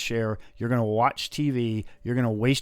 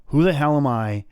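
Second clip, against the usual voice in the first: self-questioning; 5 dB louder than usual. Retold or imitated. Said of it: "look at yourself in the mirror, and go".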